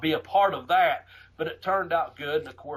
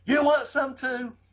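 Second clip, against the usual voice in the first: higher, slow taunting threat; a slow, drawn-out threat; menacing challenge; 9 semitones higher, slower than usual. Retold or imitated. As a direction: dare him to step up, slowly. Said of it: "Buddy said".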